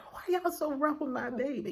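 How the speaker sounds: retold woozy objection; high on drugs. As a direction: complain as a drugged new mom. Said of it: "You know, I'm all high".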